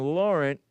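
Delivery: "Laurent" the French way, silent T; "Laurent" attempted in French, final T dropped; French pronunciation. Shown as a demonstration. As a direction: say "Laurent" slowly with a French nasal ending. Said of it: "with the Saint pronounced".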